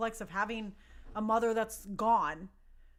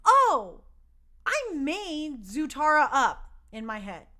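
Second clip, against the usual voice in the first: realization; 3 semitones higher, 6 dB louder, slower than usual. Retold or imitated. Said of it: "I was like".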